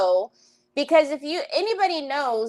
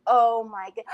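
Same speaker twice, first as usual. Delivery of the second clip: acted shock; 10 semitones higher than usual. Imagined shock at seeing him.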